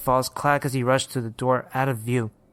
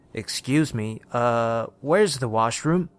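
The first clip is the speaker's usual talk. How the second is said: put-on hesitant British young man; British accent; 2 semitones lower, slower than usual. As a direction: ask politely in a British accent. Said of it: "He had a British accent".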